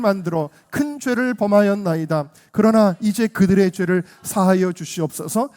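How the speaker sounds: loud, declamatory Bible reading; scripture reading. Real, not acted. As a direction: read the verse out firmly to the congregation. Reads scripture aloud.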